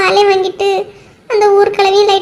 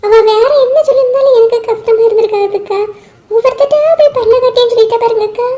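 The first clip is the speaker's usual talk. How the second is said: tearful complaint, voice pitched up; crying. Acted. Geetha tearfully complains to the older woman about the insult. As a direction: sob out the hurt to the older woman. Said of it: "அழாத கீதா".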